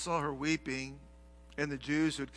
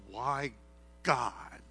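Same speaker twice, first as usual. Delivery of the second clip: whispered why; 5 semitones lower, 5 dB quieter than usual. Retold or imitated. Grieving friend's whispered question.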